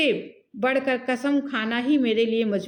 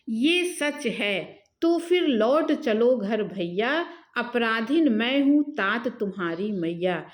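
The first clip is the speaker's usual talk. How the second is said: slow, measured poetry reading; verse recitation. Acted. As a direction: recite the couplet in drawn-out metre. (लय में धीमा कविता-पाठ)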